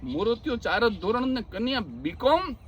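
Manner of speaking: doubting echo, lift on કોમ at the end; incredulous question. Retold or imitated. Teller questions the wedding card in disbelief, asking. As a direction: repeat it back in disbelief, asking about કોમ. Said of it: "મેં કીધું".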